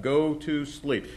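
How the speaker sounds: slow stress on Go; slow emphasis. Shown as a demonstration. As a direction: Go to sleep said slowly with weight on Go. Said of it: "Notice that".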